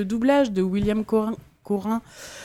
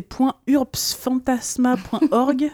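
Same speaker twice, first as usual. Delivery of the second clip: spelled out slowly; 4 semitones higher, much slower than usual. Shown as a demonstration. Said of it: "c'est compliqué".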